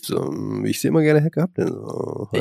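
low, soft, put-on deep voice. Shown as a demonstration. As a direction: drop into a deep manly tone. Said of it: "so sehr männlich und tief".

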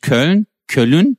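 Köln said as kœlun with an extra u; Köln with a vowel between l and n; Turkish pronunciation. Retold or imitated. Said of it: "Sagen die dann".

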